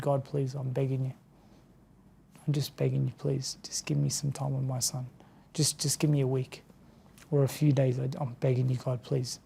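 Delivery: hushed desperate prayer; pleading prayer. Retold or imitated. Retold desperate prayer to God.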